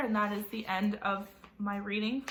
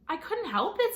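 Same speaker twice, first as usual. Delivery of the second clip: whining; 8 semitones higher, 4 dB louder than usual. Acted. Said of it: "kind of whining".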